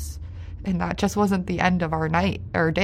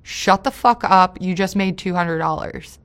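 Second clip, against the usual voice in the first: mock harsh snap; 5 dB louder than usual. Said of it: "and she goes".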